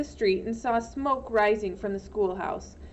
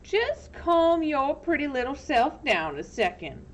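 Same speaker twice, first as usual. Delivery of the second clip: slow drawl; 5 semitones higher than usual. Acted. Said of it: "in a slow drawl".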